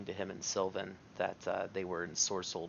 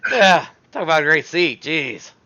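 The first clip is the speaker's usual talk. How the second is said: under breath; 8 semitones higher, 19 dB louder than usual. Acted. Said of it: "I say it under my breath".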